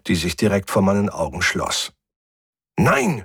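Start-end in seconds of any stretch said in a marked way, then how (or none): 2.8-3.2 high, desperate shout. A narrator's reading. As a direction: cry out in alarm, much higher. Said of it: "schrie ich". (verzweifelt geschrien)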